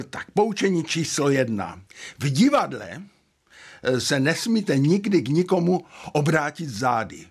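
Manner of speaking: mildly energised imitation of an older mentor's pronouncement; emphatic quoted lecture, a touch charged; energy-charged voice. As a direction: lightly play the mentor issuing rule number one. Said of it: "s tím svým energií nabitým hlasem".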